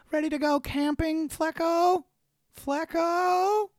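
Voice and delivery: high, goofy sing-song bug voice calling at the door; a dopey bug knocking for a camping buddy; Heifer. Acted. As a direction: call out cheerfully to a friend. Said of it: "It was a bug version of Heifer".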